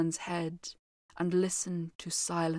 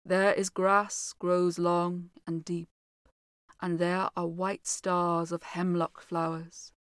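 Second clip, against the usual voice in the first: low dreamy voice; 2 semitones lower than usual. Acted. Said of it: "in a low, dreamy voice".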